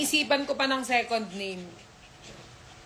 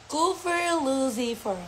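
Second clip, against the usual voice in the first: slow naming; 4 semitones higher, slower than usual. Shown as a demonstration. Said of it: "Ang pangalan nito ay Cooper Lucifer".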